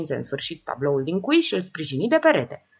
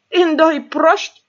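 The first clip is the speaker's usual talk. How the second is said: laughing heartily; 10 semitones higher, 9 dB louder, slower than usual. Acted. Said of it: "râse cu poftă".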